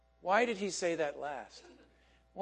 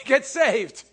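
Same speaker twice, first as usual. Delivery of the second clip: louder, higher correction; 6 semitones higher, 10 dB louder than usual. Shown as a demonstration. Preacher correcting himself, a louder Get saved. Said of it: "That's better".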